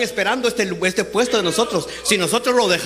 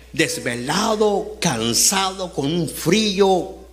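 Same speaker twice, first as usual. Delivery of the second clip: slow, drawn-out list of hardships; weary complaint; much slower than usual. Acted. Peter telling the Lord about his night of work, wearily drawn out. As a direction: stretch each hardship out as Peter would.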